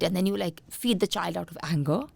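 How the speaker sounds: ordinary talk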